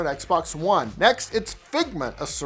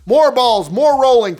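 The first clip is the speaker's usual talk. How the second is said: loud hype; 4 semitones higher, 8 dB louder than usual. Acted. Hyped quip.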